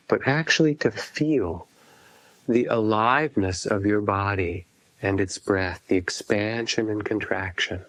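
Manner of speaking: unhurried phrases, each left to settle; guided meditation. Acted. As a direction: guide listeners gently into feeling the breath. Leads a breath meditation.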